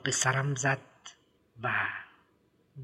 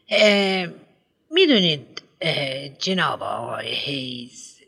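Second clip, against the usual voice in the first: a pompous headmistress lecturing a parent; prim schoolmistress voice, raised pitch; fussy headmistress. Acted.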